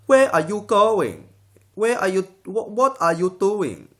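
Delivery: high, loud Asian accent with falling swoop; better mock Asian accent. Shown as a demonstration. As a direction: exaggerate the Asian accent and its pitch drop. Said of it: "it's much better".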